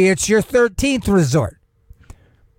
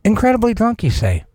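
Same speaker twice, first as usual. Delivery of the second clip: mock incredulous; 3 semitones higher than usual.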